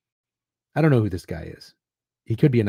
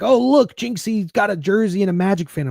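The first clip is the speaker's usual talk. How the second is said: mock excitement; 8 semitones higher than usual. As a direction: gush it like an overeager team tweet. Quoting the team's excited tweet.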